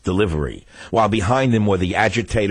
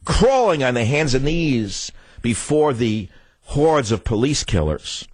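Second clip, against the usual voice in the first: slow contempt; 3 semitones higher than usual. Real, not acted.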